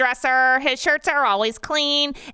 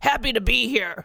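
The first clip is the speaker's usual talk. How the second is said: gruff voice. Reading a story, voicing a judge greeting the crowd: gruff voice. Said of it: "she says to the crowd in a gruff voice".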